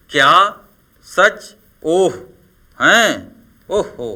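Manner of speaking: slow astonished exclamation; surprised. Shown as a demonstration. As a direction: act out the wonder. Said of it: "विस्मय या आश्चर्य का भाव".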